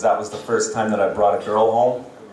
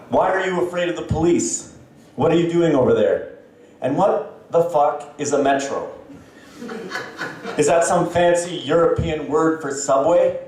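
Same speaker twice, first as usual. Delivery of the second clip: mock parents; 4 semitones higher than usual. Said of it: "They'd be like".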